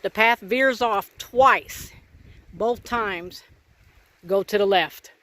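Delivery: slow, loud and deliberate over gusts; shouting over wind. Real, not acted. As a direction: raise your voice against the wind. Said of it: "Hope you can hear me over the wind".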